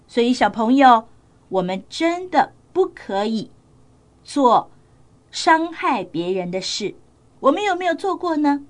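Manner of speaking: put-on gentle storyteller moral to kids; reading to children. Storyteller gives children the moral, gently.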